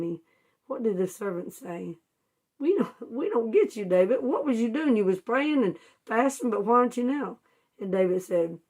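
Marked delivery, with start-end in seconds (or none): 2.6-7.4 higher, baffled questioning; puzzled servants. Retold or imitated. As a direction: ask him in disbelief why he stopped.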